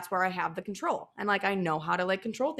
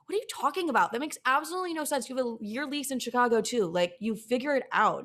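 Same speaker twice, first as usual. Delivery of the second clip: incredulous friend; 4 semitones higher than usual. Retold or imitated. Best friend scolding her worries.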